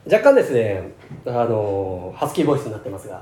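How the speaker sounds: real raspy, husky throat; hoarse voice from a worn throat. Real, not acted. (かすれたハスキーボイス)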